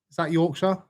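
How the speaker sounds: ordinary talk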